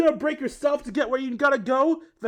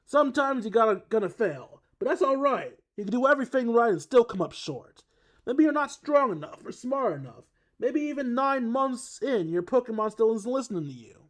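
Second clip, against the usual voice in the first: put-on loud, higher gruff surfer boy accent, pumped pep talk; Brawly surfer accent; 4 semitones higher, 5 dB louder than usual. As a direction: hype up the bros like a gruff surfer dude. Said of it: "horrible attempt at a gruff surfer boy accent".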